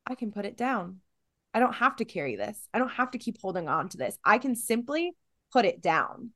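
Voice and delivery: calm realization. Pretend. Realizing she can put the weight down, soft calm. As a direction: let the relief of letting go come in quietly. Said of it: "all of a sudden you go".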